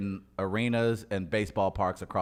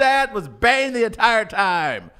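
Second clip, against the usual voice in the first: excited shout; 13 semitones higher, 8 dB louder, slower than usual. Acted. Shouting realization.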